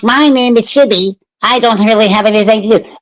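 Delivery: lightly voiced Bruce Wayne, close to his own voice; a half-hearted Bruce Wayne; mocking a friend's bad Bruce Wayne impression. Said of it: "the worst Batman to Bruce Wayne".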